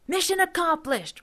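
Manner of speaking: high whooping victory cry; triumphant whoop. A narrator's reading. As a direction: crow it like a kid soldier who just won. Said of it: "Rusty whooped".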